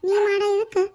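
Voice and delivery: rebuking the neighbour in front of the villagers; indignant outburst. Acted. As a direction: throw the words back at her sharply. Indignant quarrel.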